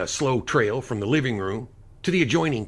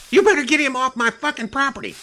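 high, loud furious yell; angry shout; 7 dB louder than usual. Acted. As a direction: shout the order in rage. Stanley shouting at the cop.

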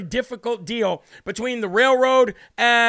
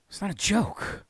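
Biden impression; 6 dB quieter, slower than usual. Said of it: "Oh, Mister Biden".

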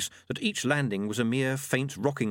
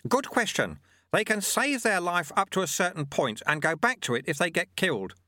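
put-on higher, patient old mentor voice; wise old monk; 7 semitones higher than usual. A narrator's reading. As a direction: teach the lesson like a wry old sweeper. Lutze explains in character.

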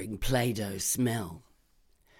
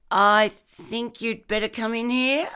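high, raised voice calling to colleagues; 11 semitones higher, 6 dB louder than usual. Acted. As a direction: call it out from another room, pitched up. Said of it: "Lindy called out to us".

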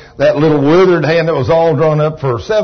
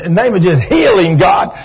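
raised, shouted prayer; retold healing prayer; 5 semitones higher, 4 dB louder than usual. Preacher retelling his prayer over a man's back, shouting. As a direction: call on God loudly for healing.

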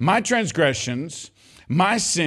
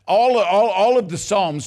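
raised, ringing call to the congregation; emphatic preaching; 3 semitones higher, 6 dB louder than usual. Real, not acted. Preacher lifting his voice to stress the Psalms. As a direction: push it out louder to drive the point home.

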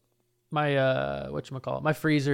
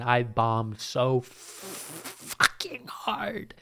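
embarrassed; much slower than usual. Real, not acted. Confessing his failed open mic.

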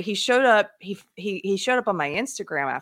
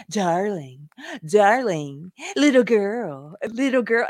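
mocking voice; 3 semitones higher, slower than usual. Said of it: "using this mocking voice".

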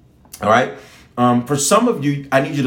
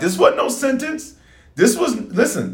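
God speaking; 12 semitones higher than usual. Retold or imitated. God voiced in sermon.

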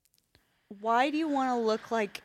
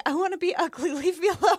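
high laughing mock whine; a girl pleading to be left alone; girl's whiny quote; 9 semitones higher, 4 dB louder, faster than usual. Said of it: "And the girl's like".

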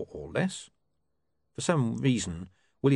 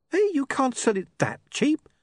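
raised, high-pitched objection; high protest. Acted. William objects to selling papers so cheaply, high and raised. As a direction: cry out against the cheap price.

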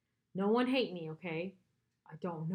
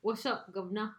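hammed-up fake English greeting; jokey mock-English accent, slightly raised; bad English accent; 3 semitones higher than usual. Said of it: "the bad English accents".

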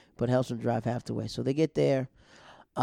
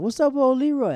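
laughing greeting; 13 semitones higher, 10 dB louder than usual. Retold or imitated. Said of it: "And he started laughing".

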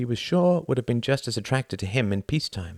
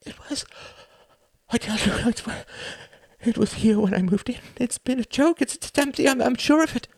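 much higher, stammering plea; frightened pleading. A narrator's reading. The captive editor pleads with the gunmen, stammering fear. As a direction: beg them, stumbling over words.

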